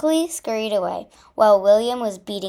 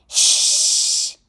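shushing. Acted. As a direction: hush them, breathy and low. Crow hushes the others.

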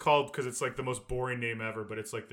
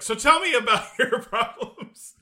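high, loud and drawn-out mock counselor line; hammed-up quote, high and slow; Roz; 10 semitones higher, 9 dB louder, slower than usual. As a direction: stretch it out in a high, exaggerated imitation. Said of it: "Roz is just like".

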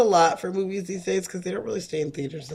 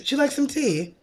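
put-on old lady voice; 9 semitones higher than usual. Old lady offering tea.

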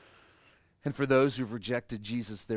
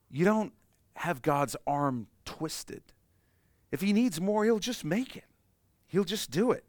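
fervent preaching; 7 semitones higher than usual. Retold or imitated. John preaching, God needs nothing.

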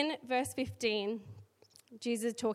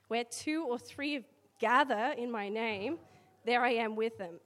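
scripture reading. Acted. Reads the scripture passage aloud.

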